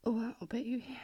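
ordinary talk

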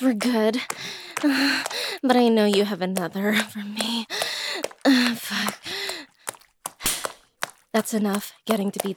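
a stern mistress who is now in charge; dominant mistress. Acted. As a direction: take control, low and firm. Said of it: "come for your mistress".

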